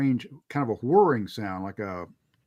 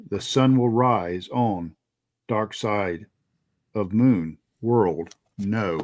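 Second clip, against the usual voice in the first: slow, halting, lightly voiced otherworldly caller; slow, lightly acted mysterious phone voice; faint voice; 2 semitones lower, slower than usual. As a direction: read the faint voice slowly, with gaps between fragments. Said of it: "very faintly appears".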